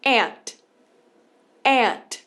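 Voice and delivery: aunt said like ant, flat short a; aunt with the American ant vowel, no u sound. Shown as a demonstration. Teacher showing students the American aunt. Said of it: "na pronúncia do inglês americano ela vai fazer aunt".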